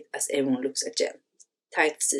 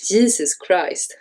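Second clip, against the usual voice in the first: slow, muttered through a laugh; half-laughed, drawn-out exasperation; laughing to herself; much slower than usual. Acted. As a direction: let a disbelieving laugh carry the words. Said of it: "Jen, to herself".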